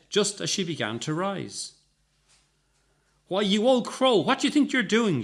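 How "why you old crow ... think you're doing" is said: high, loud wail of outrage. A narrator's reading. Young woman wailing at the old crow. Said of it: "she wailed".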